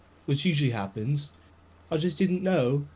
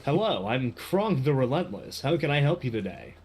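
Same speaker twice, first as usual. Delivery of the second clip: customer service voice. Acted. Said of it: "customer service voice".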